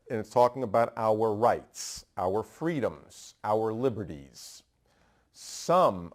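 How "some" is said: "Some" set apart, leaned on and falling; stress on some. Shown as a demonstration. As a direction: hit "Some" hard, then pause. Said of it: "I emphasize the word some".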